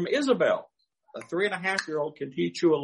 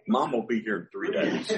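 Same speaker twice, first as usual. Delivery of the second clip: put-on laughing child quote; 6 semitones lower than usual. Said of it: "quoting child".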